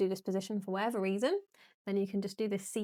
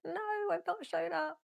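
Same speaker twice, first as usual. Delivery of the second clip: mock protest; 9 semitones higher, 5 dB quieter than usual. Acting out own past self-talk.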